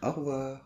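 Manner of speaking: "Au revoir" without the E, stressed on "-voir"; correct au revoir. Shown as a demonstration. Teacher modelling the correct au revoir. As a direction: say "or-voir", weight on the end. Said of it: "accent tonique à la fin des mots".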